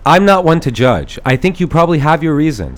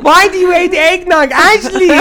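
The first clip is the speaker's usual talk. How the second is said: ghost voice; 14 semitones higher, 3 dB louder than usual. Acted. Christmas lady speaks.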